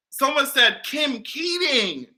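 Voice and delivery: slow, marvelling; amused disbelief. Real, not acted. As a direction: savour every word slowly. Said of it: "I am screaming".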